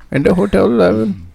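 high put-on Indian accent. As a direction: boast in a comic Indian accent. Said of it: "Indian accent".

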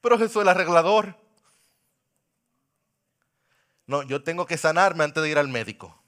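soft, low pastoral appeal; quiet, tender sermon close; intimate altar call. Acted. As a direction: speak gently to each listener.

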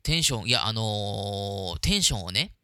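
slow, low, sleepy late-night voice; extremely deep bass voice. Shown as a demonstration. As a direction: speak slowly in a low hushed tone. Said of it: "ゆっくりできるだけ低い声で喋るって". (低くゆっくり、テンション低めの声)

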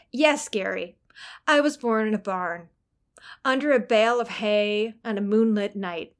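deadpan mock agreement; sarcastic. Shown as a demonstration. Writing teacher demonstrating a reply to a dumb question, sarcastic. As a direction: answer a silly question with dry sarcasm. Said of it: "That is sarcasm. You can hear the tone".

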